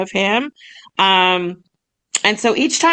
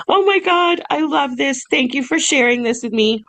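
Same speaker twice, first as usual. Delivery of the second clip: gushing excitement; 5 semitones higher than usual. Retold or imitated. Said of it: "So she was like".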